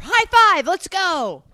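high, loud team rally; excited cheer. Retold or imitated. Imagined couple splitting rooms together, excited cheer. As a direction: cheer like a pumped-up teammate. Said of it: "And you're like".

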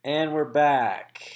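slow, loud host voice re-opening the show; radio host restart. Acted. Re-opening the podcast segment.

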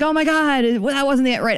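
high-pitched mock excitement; excited. Imitating a fan who got excited ordering merch, excited. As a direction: imitate an over-eager, flustered customer. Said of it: "get excited and you're like".

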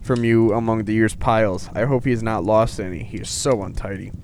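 lightly performed storybook reading; measured read-aloud voice; letter read aloud. Acted. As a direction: read Father Christmas's letter out clearly. Reads Father Christmas letter aloud.

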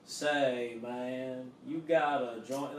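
McConaughey drawl. Retold or imitated. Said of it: "sounds like Matthew McConaughey".

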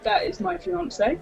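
slow, soft, flat-out correction; deadpan mock reply. Telling the customer the guy is her fiance, deadpan and slow. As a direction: let it land dry. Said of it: "I was like".

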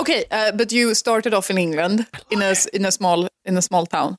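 lightly put-on Swedish accent; a hint of Swedish in the English. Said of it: "Stick with the Swedish accent".

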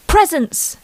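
put-on proud kid showing off her pile; chirpy child. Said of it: "Emily chirped".

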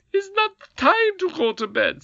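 high, loud squeaky retort; contrary goblin queen. A narrator's reading. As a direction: snap back stubbornly.

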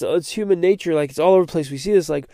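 usual speaking voice

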